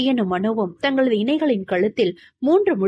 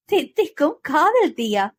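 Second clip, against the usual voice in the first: teasing echo; 5 semitones higher than usual. A narrator's reading. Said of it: "சிரித்தாள் மகி".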